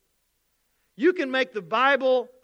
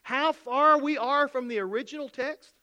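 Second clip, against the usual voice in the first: higher, pushy doubting skeptic; lightly mock the questioning doubter; a hint of an incredulous skeptic pressing the pastor; skeptic's voice; 4 semitones higher than usual. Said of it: "It goes something like this".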